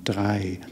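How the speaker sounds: "Drei" with the r rolled at the back of the throat; throaty r in "Drei"; German Drei. Shown as a demonstration. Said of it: "more at the back of your throat".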